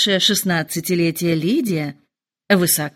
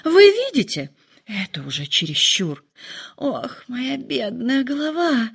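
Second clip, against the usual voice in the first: драматизм; 5 semitones higher than usual. A narrator's reading. Мать жалуется на нервы.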